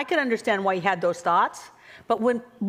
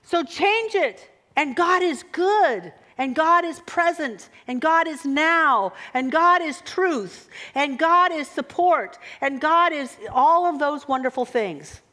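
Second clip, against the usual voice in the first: uplifting mantra; 3 semitones higher than usual. Acted. Uplifting mantra, rising energy.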